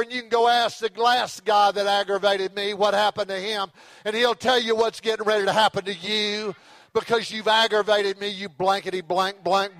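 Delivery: Peter, cornered, blows up at his accusers; angry Peter cussing. Retold or imitated. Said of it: "He began to cuss".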